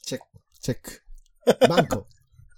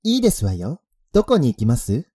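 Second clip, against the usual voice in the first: ojousama speech; 5 dB louder than usual. Acted. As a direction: talk like a rich young lady. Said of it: "そのまんま読み上げたんですけども".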